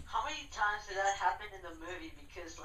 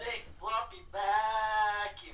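laughing; 4 dB louder, much slower than usual. Real, not acted. Mocking the odd phrase.

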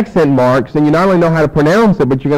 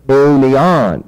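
Eunion with the final -on raised and loud; stress on last syllable; 6 dB louder than usual. Shown as a demonstration. Teacher raising the voice to accentuate masculine form, last-syllable stress. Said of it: "You raise your voice to accentuate the last syllable".

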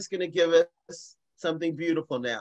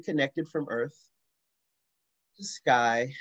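measured meditation leading, phrase by phrase with long pauses; guided meditation; 2 semitones lower than usual. Acted. Leading a group through a grounding breath exercise, guided meditation. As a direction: guide the breath unhurriedly, leaving space between phrases.

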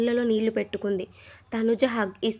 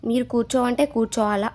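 mock-angry tirade, louder; retold tirade; 6 dB louder than usual. Madhuri retold blasting the captain, mock-angry and louder. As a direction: hammer the captain with raised voice. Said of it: "Madhuri వాయించేసింది".

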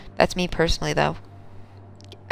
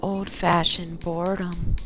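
seductive voice; slower than usual. Pretend. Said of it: "it's just the voice".

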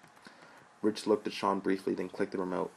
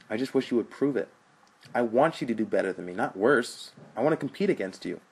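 impassioned plea; 5 semitones higher, 5 dB louder than usual. Acted.

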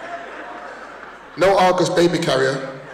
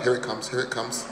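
much softer, hushed anticipation; excited whisper; 6 semitones lower, 11 dB quieter than usual. Retold or imitated. Kids waiting for the funny names, hushed giggle. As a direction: whisper to your mates that it's coming. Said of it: "West Indian kids were like".

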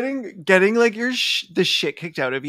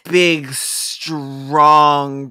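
mocking; much slower than usual. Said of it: "Him being like".

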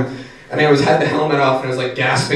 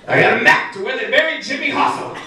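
high mock secret; 11 semitones higher than usual. Imagined homeless man line.

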